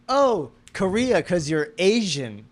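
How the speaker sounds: slow, drawn-out tipsy blurt, lightly imitated; retold drunken blurt. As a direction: imitate a drunk realization, stretching the words. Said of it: "I drunkenly went".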